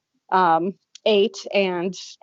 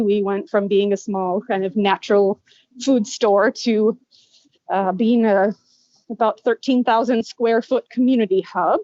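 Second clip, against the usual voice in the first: talking through a face mask; muffled voice behind a mask. Real, not acted. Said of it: "I'm sorry if it's a little muffled. I have to wear my mask".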